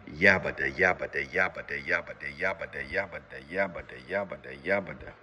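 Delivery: steady yabba-yabba mouth noise, fading; rhythmic yabba noise. Shown as a demonstration. Coach demonstrating the technique to viewers, rhythmic babble fading away.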